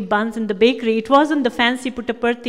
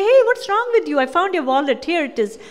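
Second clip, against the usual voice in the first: mock exasperated friend; 4 semitones higher than usual. Classmates returning her wallet.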